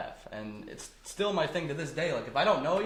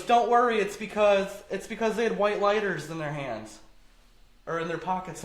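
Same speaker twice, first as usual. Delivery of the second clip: imitated woman; 5 semitones higher, 4 dB louder than usual. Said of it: "So she goes".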